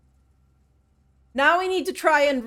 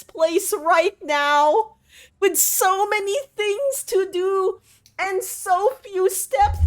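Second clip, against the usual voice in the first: higher, mock tragic speech; melodramatic lament; 5 semitones higher than usual. Streamer mock grieving over lost steps, high. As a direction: play it like a tragic heroine. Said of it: "We're very melodramatic today".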